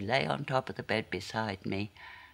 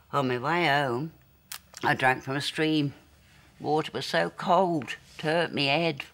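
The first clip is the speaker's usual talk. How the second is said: high, loud, breathless-with-joy recollection; elated; 4 semitones higher, 6 dB louder than usual. Acted. Girl recalling the cold stream on her way home, elated. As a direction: tell it high and loud, thrilled by the memory. Reliving her happiest childhood day.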